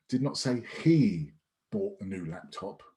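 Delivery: single out he, then let the words fade; stress on he. Shown as a demonstration. Trainer demonstrating emphasis on he. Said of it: "it could have been someone else".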